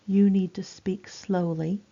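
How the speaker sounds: slowly, word by word; slow down for someone hard of hearing; measured, careful delivery; slow, clear speech. Shown as a demonstration. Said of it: "this is how we speak to people".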